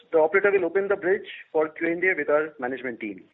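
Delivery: usual speaking voice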